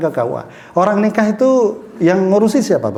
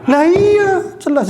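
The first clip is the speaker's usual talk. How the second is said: excited outburst; 11 semitones higher, slower than usual. Real, not acted. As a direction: burst out with the obvious answer. Triumphant answer to own question.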